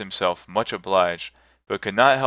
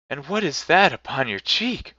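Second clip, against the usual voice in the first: lightly raised solemn spirit voice; ghost voice; 7 semitones higher than usual. A narrator's reading. Spirit answers Scrooge, lightly voiced ghost. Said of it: "said the ghost".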